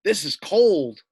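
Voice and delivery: a loud shivering brr, this is cold; chattering wolf fresh out of the river. Acted. Teacher voicing the soaked wolf to the class, loud and shivering. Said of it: "We have him here saying".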